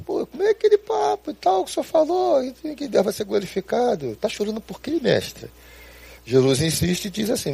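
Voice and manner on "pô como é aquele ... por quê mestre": high, far-off voice of a doubting disciple, dropping at the end; a disciple protesting in disbelief; incredulous Peter. Retold or imitated. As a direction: Peter challenging Jesus at Lazarus's tomb, incredulous. Peter questioning Jesus, acted.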